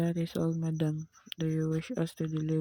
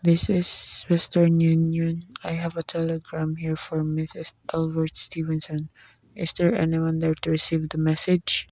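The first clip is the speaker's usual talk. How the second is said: loud official announcement; 8 dB louder than usual. Acted. Telegram messenger announcing.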